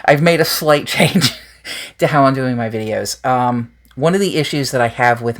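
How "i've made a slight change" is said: slow, laughing through the word slight; wry, self-aware correction with a chuckle; laughing at the understatement. Shown as a demonstration. Admitting to viewers the change is big, laughing. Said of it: "It's not slight".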